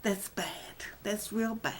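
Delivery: soft, half-whispered aside; muttered self-reproach. Real, not acted. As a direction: mutter it under your breath to yourself. Muttered aside about herself.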